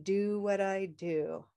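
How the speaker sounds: slow, drawn-out model line; slow demonstration. Shown as a demonstration. Teacher repeating the line for learners to copy, slow and drawn out. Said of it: "try that".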